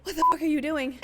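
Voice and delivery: retold loud, high disbelief; shocked outburst. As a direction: imitate someone walking in on something awful. Acts out shocked med student.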